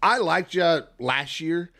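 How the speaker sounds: half-joking, let her have it; exasperated callout. Real, not acted.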